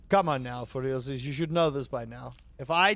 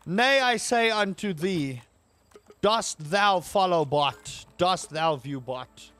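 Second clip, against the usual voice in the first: mock biblical prophet. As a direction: proclaim like an old prophet. Archaic mock preaching.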